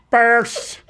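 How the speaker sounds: imitating a passerby yelling; mock yell. Fan shouting at passersby, mild mock yell. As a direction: call it out like a fan walking past. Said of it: "a guy's walking by yelling".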